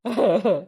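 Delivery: short pulsing sobs; weeping in broken bursts; crying. Acted. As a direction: sob without words. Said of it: "ఏడవకు బిడ్డ".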